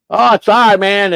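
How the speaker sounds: high, offhand sorry; casual apology. Retold or imitated. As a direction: toss off a lazy apology. Late boyfriend apologizes.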